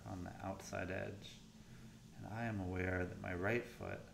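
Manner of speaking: softened, unhurried meditation guidance with long pauses; guided meditation. Real, not acted. Coach leading listeners through warm-up scans, guided meditation voice. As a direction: ease them through the exercise, quietly.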